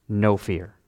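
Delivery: low, measured words of comfort; reassuring. Acted. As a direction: say it low, calming frightened friends. Voices Jesus calming the disciples.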